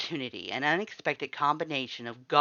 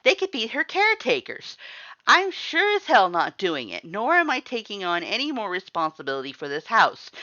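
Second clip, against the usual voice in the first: much higher, louder tirade, slowing at the end; angry rant; 7 semitones higher, 10 dB louder than usual. A narrator's reading. Sans rants about cleaning up after everyone. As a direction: vent all the resentment.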